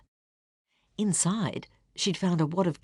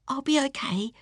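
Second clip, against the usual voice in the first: bravest voice; 8 semitones higher than usual. Acted. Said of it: "in her bravest voice".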